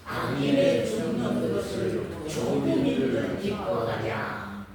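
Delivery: slow group recitation, one voice ringing out; loud reading aloud. Real, not acted. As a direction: read the verse out loudly and slowly, together. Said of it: "막 큰 목소리로 읽으니까 참". (큰 목소리로 천천히 함께 낭독)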